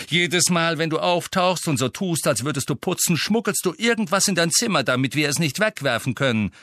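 high, brisk exasperated accusation; accusing. A narrator's reading. Master accusing the elf of smuggling, exasperated. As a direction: rattle off the charge crossly.

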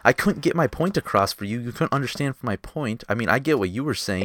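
heated yelling. Real, not acted. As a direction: push your point in a heated argument. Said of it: "me and Nolan yelling".

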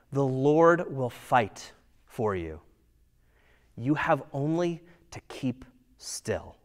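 quiet, unhurried comfort from a leader; calm reassurance. Retold or imitated. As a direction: gently tell them not to be afraid. Moses calming the frightened Israelites.

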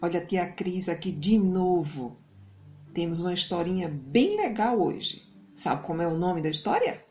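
put-on bright, friendly host voice for children; kids show host. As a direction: greet the little ones like a TV host. Host greets children before story.

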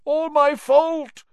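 high, pained, pressing on my. Acted. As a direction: cry it out in guilt.

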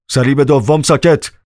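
sharp command. A narrator's reading. Guard orders the second crucified man to be silent, curt command. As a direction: cut him off with a command.

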